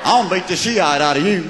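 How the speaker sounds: "Shiite" drawled like a Southern swearword. Acted. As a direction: threaten in Southern style, punning on "Shiite". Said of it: "hard it is for a Southerner to say".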